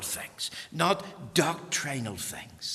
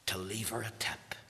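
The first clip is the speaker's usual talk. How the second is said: hushed, softer reveal; whisper; 2 semitones lower, 9 dB quieter than usual. Real, not acted. Preacher revealing the boy's tip, in a whisper. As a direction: drop to a whisper for the twist. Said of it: "story's tender reveal".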